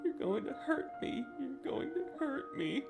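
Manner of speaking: high tearful whimpering repeat; high sobbing wail. Acted. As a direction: wail it high, almost pleading. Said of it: "He continued to sob and rock".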